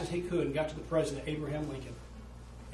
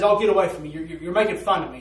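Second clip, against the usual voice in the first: angry retort; 8 dB louder, faster than usual. Retold or imitated. Prisoner's angry retort acted.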